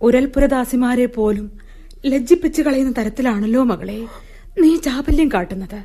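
ordinary talk, nothing marked

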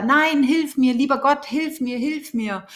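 a half-acted desperate plea that trails off; mock yell for help. Drowning man refusing the stick, mild mock cry. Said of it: "schreit er weiter".

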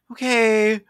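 high, loud "okay, no"; flat refusal. Retold or imitated. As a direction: shut it down, incredulous. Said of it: "And it's like".

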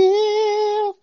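high falsetto squeak; squeaky high. Pretend. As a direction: squeak the word out. Punchline, squeak.

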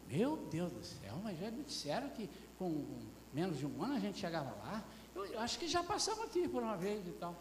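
acted grumbling of weary wanderers; mock whining complaint; murmuring complaint. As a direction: grumble like a fed-up traveller, lightly acted. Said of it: "E só murmurando".

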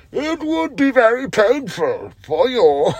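high, slow, muffled villain voice through a mask; menacing masked villain, drawn out; Bane impression. Shown as a demonstration. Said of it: "that's my Bane impression".

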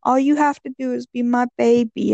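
high, sweet, coaxing; sugar mama. Retold or imitated. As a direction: lure him in, sugary. Voicing scammer lady.

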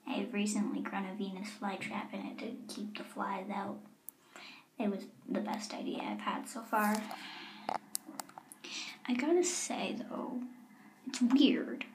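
hushed secret whisper. Acted. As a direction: whisper so nobody hears. Hiding from guards outside door.

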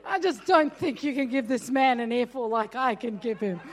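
chuckling as she says it; half-laughing mock pride; laughing boast. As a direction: laugh at her own bravado. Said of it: "that's how I felt".

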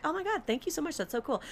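high and soft acted gratitude; lightly hammed-up thankfulness; gushing thanks. Acting own thanks to the bartender.

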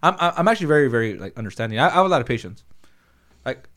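talking through a closed helmet; inside a helmet. Real, not acted. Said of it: "I can't talk to you with the helmet on".

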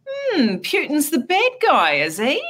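slow, high, knowing insinuation; conspiratorial tone. Retold or imitated. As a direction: drawl it like a sly conspiracy theorist. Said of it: "say it in a conspiratorial tone of voice".

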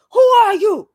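frantic accusing voice; high panicked shout. Retold or imitated. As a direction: yell high, scared and confused. Quoting friend not recognizing.

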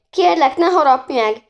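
high, loud, panicky begging; frightened plea. A narrator's reading. Anna to the man she takes for a vampire, frightened plea. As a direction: plead loudly in fright. Girl begs supposed vampire for mercy.

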